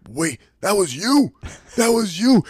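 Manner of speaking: stunned disbelief, rising; surprised. Retold or imitated. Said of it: "Tom's like".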